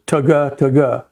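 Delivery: voiced "ta-ga, ta-ga" duck call clucks; double cut feed call. Shown as a demonstration. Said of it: "the way you do a double cut is".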